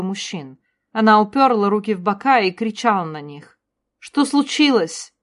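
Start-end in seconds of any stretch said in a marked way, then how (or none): 4.0-5.1 high, slow call out. A narrator's reading. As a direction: call across the crowd. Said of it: "прокричала Джиннис". (громкий оклик)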